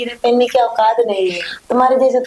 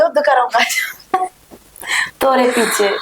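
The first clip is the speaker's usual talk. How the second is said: whispering. Acted. Joking aside to friend.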